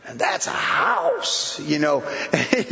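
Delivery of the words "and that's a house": mock awe. Awed at Bel Air mansions.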